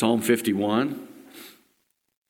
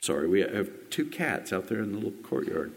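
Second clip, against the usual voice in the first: quiet aside; 4 semitones lower, 6 dB quieter than usual. Real, not acted. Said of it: "I've confessed I have A D D".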